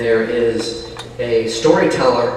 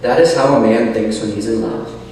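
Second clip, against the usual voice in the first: story narration. Acted. Reads novel aloud.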